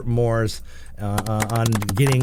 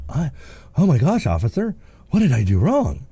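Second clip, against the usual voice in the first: acting surprised; 2 semitones higher than usual. Driver pulled over by officer, acting surprised. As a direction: feign shock at being stopped. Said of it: "you act surprised".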